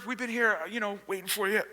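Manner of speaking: lightly acted winded casualness; mock out of breath. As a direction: pretend to be casual while puffed. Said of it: "they're out of breath".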